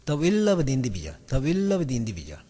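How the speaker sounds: very slow, each chunk drawn out; slow model reading. Shown as a demonstration. Teacher modelling the sentence for students, very slow. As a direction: read it out slowly as one meaning unit. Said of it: "이 말을 하세요, 여러분들이".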